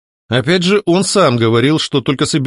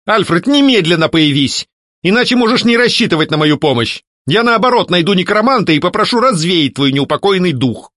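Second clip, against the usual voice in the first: higher, a touch of angry command; angry demand; 6 semitones higher, 3 dB louder than usual. A narrator's reading. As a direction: order him to appear. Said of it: "гневно продолжила".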